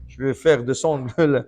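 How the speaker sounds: slow, loud, hammering the words home; emphatic preaching. Real, not acted. Preacher exhorting his listeners to sweat, slow loud push. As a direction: drive it into the congregation, slow and loud. Preacher urging hard work.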